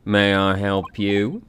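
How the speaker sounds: slow, polite English maid; a lightly voiced housemaid; prim maid voice.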